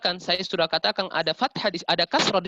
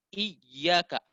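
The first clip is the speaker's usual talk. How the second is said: "iyyaka" lifted on the yy; raised intonation on shadda. Shown as a demonstration. Teacher shows Arabs will understand, lifted intonation. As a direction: lean into the doubled y of "iyyaka". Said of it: "Angkat intonasi kita".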